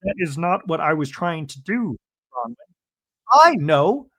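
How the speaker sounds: high, loud, upset imitation of Bronwyn. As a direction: friend mimics Bronwyn arguing with her husband, upset and high. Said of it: "Bronwyn's like".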